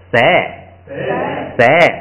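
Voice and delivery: 塞 said clearly and slowly, syllable alone; teacher models 塞 for the class; model reading 塞. Shown as a demonstration. Teacher reading the changed sound to students, careful model. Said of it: "所以变成就".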